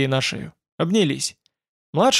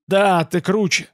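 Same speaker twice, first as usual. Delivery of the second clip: slow, slightly raised strained voice; wheezed; 4 semitones higher, slower than usual. A narrator's reading. Wounded guard concedes to the hero, lightly wheezed. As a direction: drag it out like a wounded man. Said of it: "Он прохрипел".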